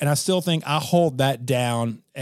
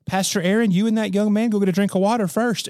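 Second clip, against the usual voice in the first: put-on higher, gentle little old lady voice; sweet old lady voice; 5 semitones higher than usual. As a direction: voice a sweet elderly woman lightly. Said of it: "this sweet little old lady voice".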